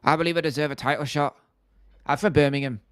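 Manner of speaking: put-on Birmingham accent; Leon Edwards impression. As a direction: imitate a Birmingham fighter staking a claim. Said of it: "Leon Edwards' accent doesn't sound human".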